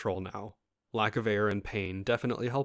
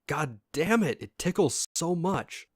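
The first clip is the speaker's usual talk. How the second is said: breathless laughing complaint; 8 semitones higher, 4 dB louder, slower than usual. Retold or imitated. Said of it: "Mixture of breathlessness and laughter".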